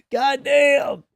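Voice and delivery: exasperated goddamn. Real, not acted. Incredulous reaction to the post.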